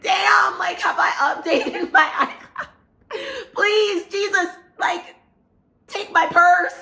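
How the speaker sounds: high, loud retold wail broken by a laugh; frantic plea. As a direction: act out desperate pleading mid-robbery. Acts frantic thoughts while being robbed.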